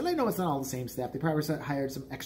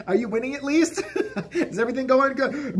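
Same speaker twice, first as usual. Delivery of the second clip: mock cheery; 9 semitones higher, 4 dB louder than usual. Teasing the sick girl.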